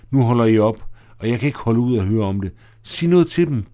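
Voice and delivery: upset outburst. Acted. Tina can't bear the flood talk.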